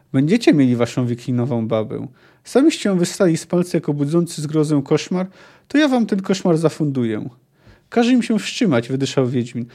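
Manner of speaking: fluent audiobook reading with acted dialogue; story narration. A narrator's reading. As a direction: read the novel aloud, voicing the quotes. Reads the novel aloud. (czytanie powieści na głos)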